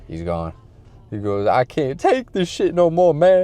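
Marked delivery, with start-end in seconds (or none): 1.5-3.4 high, loud mock despairing cry; imitated breakdown. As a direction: blurt it out as if cracking up. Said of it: "he starts crying".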